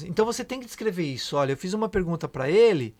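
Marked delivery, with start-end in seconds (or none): 1.4-3.0 long silence left hanging after "ele"; deliberate pause. Shown as a demonstration. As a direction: say it, then stop dead after "ele". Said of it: "Viu a pausa que eu dei?".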